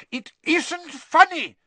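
high, slow, loud rebuke; angry shout. A narrator's reading. Father scolding over the family's laughter, shouting. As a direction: shout it word by word. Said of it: "Mister Weasley shouted".

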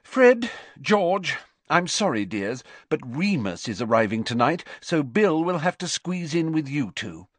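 high-pitched motherly voice; Missus Weasley, apologetic. A narrator's reading. Mother telling twins about sleeping arrangements, apologetic. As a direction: call them, then explain in a high, busy mother's voice.

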